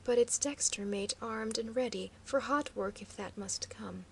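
ordinary delivery, nothing marked

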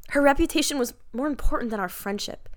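hammy dramatic reading. Pretend. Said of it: "read it dramatically".

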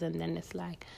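ordinary talk, nothing marked

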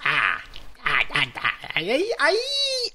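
stammer, then swoop way up on "aí"; playful stammering. Pretend. Co-host answering his partner's cue, playful stammering.

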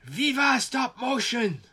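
put-on stretched victory call in an old man's voice; imitating a triumphant cheer. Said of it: "he leans out the window with his fist in the air, and he goes".

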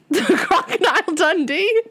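high, loud laughing question. Real, not acted. Friend's Aussie joke makes her laugh out loud. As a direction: laugh it out, amused.

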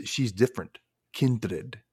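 a light, understated put-on Dracula accent for "She's different. Kindred."; barely-there vampire count accent, mostly her own voice; mock Dracula accent. Podcaster quoting Dracula to Buffy, in a faint Dracula accent. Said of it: "don't know why I did that accent".

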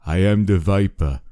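put-on lightly Austrian-accented caller; creepy Viper voice. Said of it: "I just imagined him as being".

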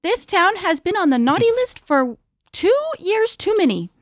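holiday voice. Acted. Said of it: "I love your holiday voice".

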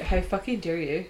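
mock outrage, dry; sarcastic. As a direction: fake offence, deadpan. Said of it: "We are sarcastic cunts".

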